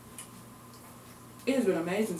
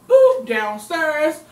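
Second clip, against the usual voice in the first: drawn-out boop; 6 semitones higher, 8 dB louder, much slower than usual. Acted. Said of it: "do my boop more often".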